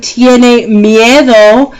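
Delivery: slow model phrase. Shown as a demonstration. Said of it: "teacher models slowly".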